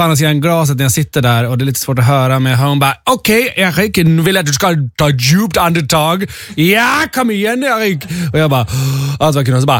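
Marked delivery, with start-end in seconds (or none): 3.0-8.0 high-pitched mock German accent. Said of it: "hon pratade lite så här med tysk accent".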